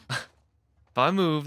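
slowed down, laughing through the words. Real, not acted. Gamer laughing at his own panic, slow and amused. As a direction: laugh as you repeat it in disbelief.

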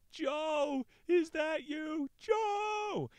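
high, loud shout searching in the dark; calling his friend's name into the night. Retold or imitated. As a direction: yell out for a lost friend. Simon calling out in story.

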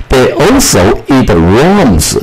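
slow, carefully read English sentence; slow model reading. Shown as a demonstration. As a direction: read it out slowly for learners. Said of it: "这是卷舌，worm". (慢速示范朗读)

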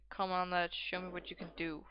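calm encouragement. Acted. Gamer applying advice to encourage a player, calm and measured. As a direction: say it calmly, easing down at the end. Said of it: "Let's just calmly say".

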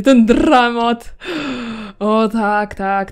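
slow, loud, drawn-out "dramat"; mock relish. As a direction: savour the drama theatrically. Savouring the Sim's misery. (teatralne rozkoszowanie się dramatem)

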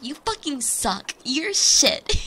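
hammed-up indignation; mock-angry retort. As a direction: swear back at a teasing sibling, landing hard on the end. Brother's retort, retold with gusto.

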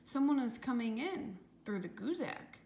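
high, excited calling out; storybook excitement, mildly called out; shouted alert. A narrator's reading. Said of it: "shouted Leslie".

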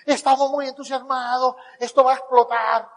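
arenga sostenida en tono más agudo; entusiasmo imitado. Retold or imitated. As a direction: imita a alguien muy entusiasmado. Cita al entusiasta Ángel. (entusiasmo fingido)

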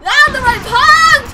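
slow, loud battle cry: Yandere punch; yelled attack name. Pretend. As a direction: drag out each word like an anime attack call. Shouting attack name in game.

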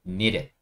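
"needed" reduced to a quick "니렛"; natural linked needed. Shown as a demonstration. Teacher tells learners to read it so, "needed" as "니렛". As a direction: say "needed" with a tapped middle d, "니렛". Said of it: "이렇게 읽어주시면 돼요".

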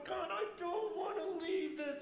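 high-pitched, overwhelmed plea; excited appeal, voice lifted high; retold eager prayer. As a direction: exclaim it to God, pitch jumping up.

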